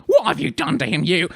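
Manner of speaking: high, loud angry demand; furious accusation. Acted. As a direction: round on her, protecting the child. Nanny glares, accusing Granny over child.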